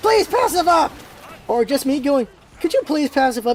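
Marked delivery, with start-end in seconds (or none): 0.0-1.0 shouting in a high voice. Showing how a typed request can be read as yelling. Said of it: "interpret anything as you yelling at them".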